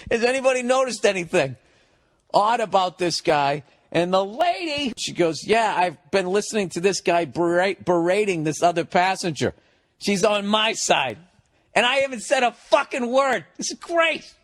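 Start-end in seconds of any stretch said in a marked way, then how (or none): 0.1-3.6 high, prim flight attendant voice; lightly voiced stewardess questioning passengers. Stewardess polling first class, lightly mocked. 5.5-14.3 high, gleeful lady voice; a lightly voiced eager passenger taking his side; gossipy lady passenger. Lady passenger telling stewardess, high and gleeful.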